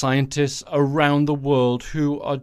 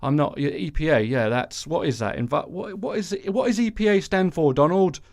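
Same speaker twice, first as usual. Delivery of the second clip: clueless Pruitt voice; 3 semitones higher than usual. Retold or imitated. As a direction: act baffled, asking Donald what it stands for. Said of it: "acting out thing here between Donald Trump and Scott Pruitt".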